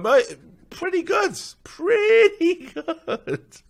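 high, slow, laughing "pretty good"; mock faint praise. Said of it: "you went".

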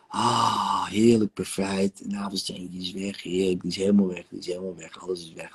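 guided meditation. Acted. Therapist guiding client through rebirth regression, calm meditation voice. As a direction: lead her gently back through her birth.

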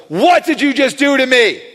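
a passer-by suddenly feeling something in his body; startled cry. Retold or imitated. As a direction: blurt it out in shock. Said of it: "this guy walks by and goes".

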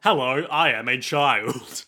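slow, stiff fake kid voice; a grown-up badly pretending to be a kid; stilted child act, slow; mock child. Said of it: "act like a real kid".

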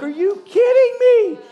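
high, slow, loud amazement; stunned disbelief. Retold or imitated. The depressed man hearing Jesus sent the stranger, high astonished cry. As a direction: blurt it out in shock. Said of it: "He's like".

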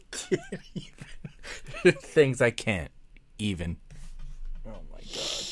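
fading, winded from laughing; breathless after laughing. Real, not acted. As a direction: barely get it out after the giggles. Helpless laughter trails off.

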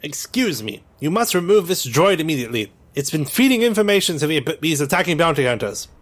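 put-on high urgent girl voice, fast; urgent little girl. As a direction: urge the officer quickly. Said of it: "instruct her to tell them".

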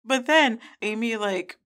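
ordinary talk

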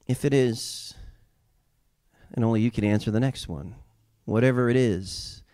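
usual speaking voice

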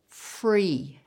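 free set apart by pauses and a falling tune; stress on free. Shown as a demonstration. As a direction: lean on free, a pause either side. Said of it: "And I emphasize the word free".

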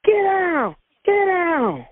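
high, mock yelled command; retold hollering. Officers raiding the bedroom, retold as a high yell. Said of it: "they were hollering".

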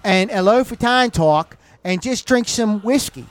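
Pittsburgh yinzer voice. Retold or imitated. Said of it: "I can't take it when he does this".

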